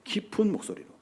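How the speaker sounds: low, hushed demonstration; quiet, deep voice. Shown as a demonstration. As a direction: drop down soft and deep. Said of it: "세미한 목소리로".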